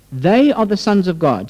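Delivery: slow, emphatic "They" opening the quote; stress on they. Shown as a demonstration. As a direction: lean hard on "They" and take it slowly. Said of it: "The Christians are those who are being led".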